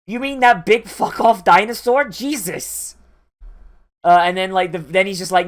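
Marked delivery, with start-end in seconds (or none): 0.0-3.0 surprised realization. Retold or imitated. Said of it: "the second time I was like".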